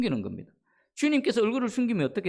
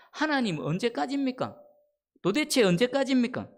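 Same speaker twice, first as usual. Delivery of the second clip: mild acted outcry, higher-pitched; crying out; 5 semitones higher than usual. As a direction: cry out to God in protest. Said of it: "아우성치는 겁니다".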